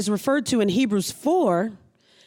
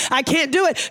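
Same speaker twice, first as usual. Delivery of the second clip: whiny scared believer; 4 semitones higher than usual. Retold or imitated. Believer complaining to God that it is too big, whiny and higher. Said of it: "are you just gonna say".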